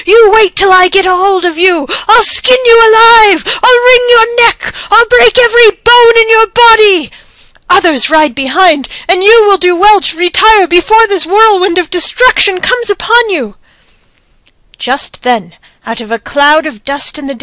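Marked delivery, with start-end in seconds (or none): 0.0-7.1 high, loud quoted threats; messenger mimicking Moti. A narrator's reading. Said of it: "for as he goes he cries". 7.7-13.5 frightened warning. A narrator's reading. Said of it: "panted the messenger".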